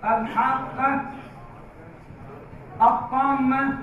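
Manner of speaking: steady lengthened vowel in الحاقة and الطامة, then press the double letter; heavy madd. Shown as a demonstration. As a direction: hold the long aa in الحاقة and الطامة before the doubled consonant. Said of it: "وبالتالي راح نقرأ". (مدّ لازم مثقل في الحاقة والطامة)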